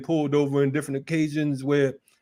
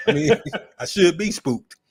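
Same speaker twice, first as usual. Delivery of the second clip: laughing; 3 semitones higher than usual. Real, not acted. Retelling armed cops at door.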